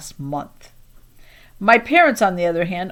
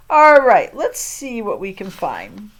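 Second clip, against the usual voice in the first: a hint of the librarian getting to work; lightly voiced librarian; 6 dB louder, slower than usual.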